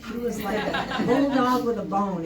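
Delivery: laughing through the words; breaking into a laugh mid-sentence. Real, not acted. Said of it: "excuse me. Excuse the pun".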